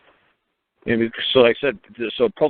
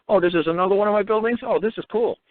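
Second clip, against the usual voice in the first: breezy Queen impression; 8 semitones higher than usual. Voicing the Queen's reaction.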